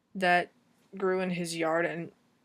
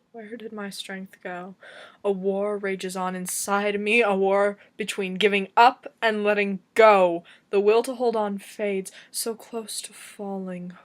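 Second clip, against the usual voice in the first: slam poetry; 4 dB louder than usual. Acted. Poet with a war raging inside, anguished slam poetry. Slams a longer poem.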